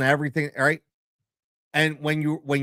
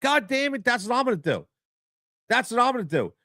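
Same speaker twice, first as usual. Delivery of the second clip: fired-up resolve; 7 semitones higher than usual. Retold or imitated. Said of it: "So I look at that and go".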